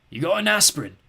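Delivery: put-on a sick old creature begging; cracked creature voice. Skellig asking the boy for aspirin, cracked.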